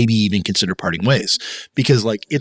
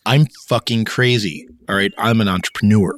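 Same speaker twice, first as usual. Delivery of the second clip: low, serious heart-to-heart; level with her honestly; earnest confession; 3 semitones lower than usual. Retold or imitated. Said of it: "the conversation that we had was like".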